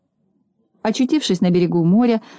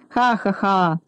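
deliberate "ha-ha-ha"; acted laugh, each syllable voiced out; spoken mocking laugh; much slower than usual. A narrator's reading. Driver taunting Neznaika, mock laughter. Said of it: "От этого смеха".

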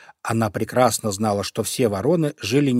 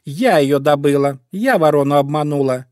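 indignant fox; 3 semitones higher, 5 dB louder than usual. Acted. Fox quarrels with cat.

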